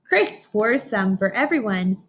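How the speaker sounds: slow, bright storybook read-aloud; reading to children. Acted. Teacher reading a picture book to her class, slow storybook voice. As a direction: read each line out slowly for the class.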